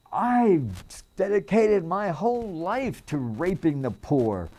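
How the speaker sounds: high, loud sneering parody of a pompous senator; mocking senator. Preacher mocks what the senator really meant, high mock voice. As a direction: lampoon the senator's hidden meaning. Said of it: "but that's what I heard".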